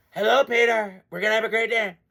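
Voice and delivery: lightly done Donald Trump voice, a touch of his cadence; hint of Trump, easy and showy; Trump impression. Sports vlogger greeting Peter as Trump, light Trump impression. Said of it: "I gotta do my Trump voice".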